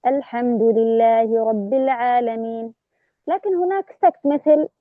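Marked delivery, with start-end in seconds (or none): 0.1-2.7 slow chanted recitation; measured Quran recitation; Quranic recitation. Shown as a demonstration. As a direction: recite it slowly in tajweed style. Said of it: "آخذ نفس".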